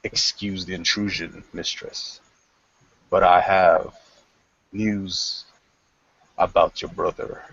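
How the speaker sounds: low respectful report to his mistress; kneeling knight. Acted. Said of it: "kneels down and says".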